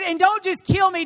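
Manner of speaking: high, urgent plea; fed-up Moses demanding an end; desperate demand. Acted.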